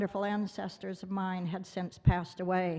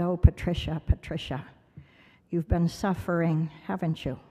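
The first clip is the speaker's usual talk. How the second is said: imitating a kindly teacher, voice sinking lower; tender sympathy; 3 semitones lower than usual. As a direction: gently console a struggling child, settling lower. Teacher kneels to comfort child.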